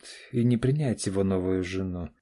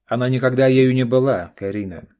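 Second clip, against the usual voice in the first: much louder stern father; hard retort; 4 semitones higher, 11 dB louder than usual. A narrator's reading. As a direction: cut her off firmly. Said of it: "жёстко ответил Олег". (жёстко и громко)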